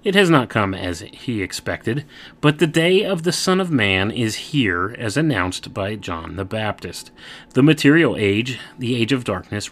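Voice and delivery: booming biblical narration. Acted. Reads aloud from a text.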